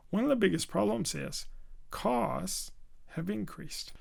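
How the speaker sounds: quick lead-in, then stressed long "costs", "increased" stressed on second syllable; slight volume stress. Shown as a demonstration. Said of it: "a very slight increase in volume".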